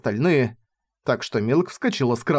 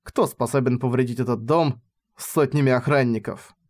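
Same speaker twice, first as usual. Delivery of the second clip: ordinary delivery, nothing marked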